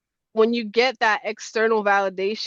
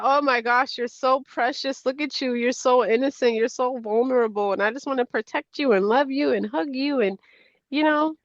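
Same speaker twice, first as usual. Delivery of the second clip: 1 tender gushing; 3 semitones higher than usual. Retold or imitated. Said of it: "just cry because I'm like".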